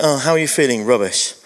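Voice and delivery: low, glum reply on "rubbish"; lightly acted grumpy couple checking in; grumpy exchange. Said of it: "when I say grumpy, it was like".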